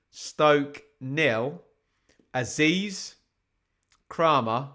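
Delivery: slow, measured scoreline read; score announcer. Real, not acted. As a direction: announce the scores deliberately, stretching each result. Reads out latest scores.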